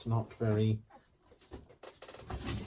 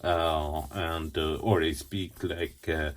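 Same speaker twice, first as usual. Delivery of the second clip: put-on stretched comic French accent, as in a sitcom; French accent from Hello Hello; 3 semitones lower than usual. Crafter quoting a British sitcom to viewers, mock French accent. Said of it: "like I am from Hello Hello".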